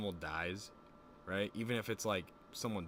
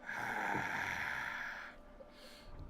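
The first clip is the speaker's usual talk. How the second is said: long sigh; 2 semitones lower, 4 dB quieter than usual. Real, not acted. Long wordless breath after boasting.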